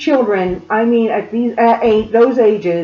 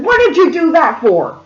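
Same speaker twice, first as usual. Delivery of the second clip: higher, lightly imitated scolding; retold indignant question; mild mock outrage; 5 semitones higher than usual. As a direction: demand an answer as the mother. Mother scolding boy, retold.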